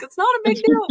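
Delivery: high, loud brush-off; mock dismissive. Mom to her crying son, loudly dismissive.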